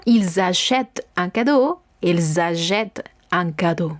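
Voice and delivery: "achètent" ending on the T, open E; silent plural ending. Shown as a demonstration. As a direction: leave the -ent of "achètent" unspoken. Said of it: "porque no digo la terminación".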